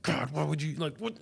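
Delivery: exasperated plea to God. Retold or imitated. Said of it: "I was like".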